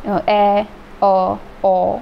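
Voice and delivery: ए and ओ sounded out slowly with the mouth half open; vowel demonstration. Shown as a demonstration. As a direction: stretch out ए, then ओ, as a model. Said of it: "इसमें थोड़ा सा ज़्यादा". (मुख आधा खोलकर ए और ओ का धीमा उच्चारण)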